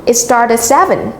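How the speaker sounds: seven stressed as the key information; teacher's model answer with seven emphasized; stress on key words. Shown as a demonstration. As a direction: put the weight on "seven". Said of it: "Notice how I stress on the highlighted".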